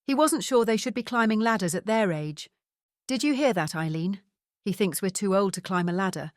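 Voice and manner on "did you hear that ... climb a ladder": teasing Scottish father, playful mock offence; Scottish accent. Father jokes to his wife about their son, Scottish accent. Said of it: "in his strong Scottish accent".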